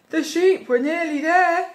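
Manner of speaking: lightly voiced crook, high and loud; crook Len. A narrator's reading. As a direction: call it out as an eager thief. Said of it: "said Len".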